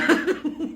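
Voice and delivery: high breathy burst of laughter; laughing at her mother's logic; real laugh. Real, not acted.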